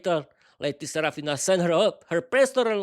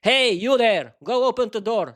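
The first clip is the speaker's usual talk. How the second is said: louder, higher call from bed; shout; 4 semitones higher, 5 dB louder than usual. Acted. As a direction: yell across the flat. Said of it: "Vera shouted to Peter".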